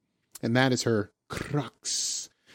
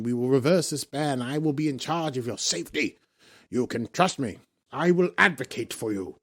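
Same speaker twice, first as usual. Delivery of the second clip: mock-grand captain's appeal; Picard speech; 2 semitones higher than usual. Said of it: "he does one of his Picard things".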